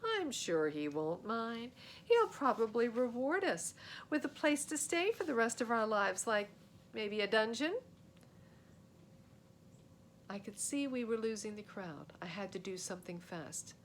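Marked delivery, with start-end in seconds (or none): 0.0-7.8 sarcastic. Acted. Sam mocking the idea.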